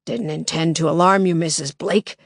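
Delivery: masked intruder to Lily, thick and harsh like a smoker. Acted. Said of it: "His voice was thick and harsh".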